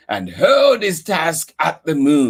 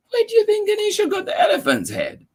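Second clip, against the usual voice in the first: excited question; much faster than usual. Real, not acted. Asking a child listener.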